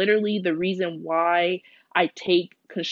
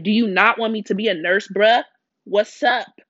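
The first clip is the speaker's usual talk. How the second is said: casual exasperated plea; 2 semitones higher, 6 dB louder than usual. Retold or imitated. Retold complaint to God.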